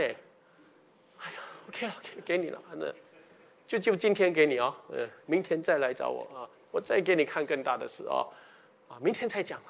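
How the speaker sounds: a lightly voiced God, sighing and giving in; weary God. Preacher voicing God as fed up with nagging prayer, soft weary sigh. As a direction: sigh it out like a tired parent giving in.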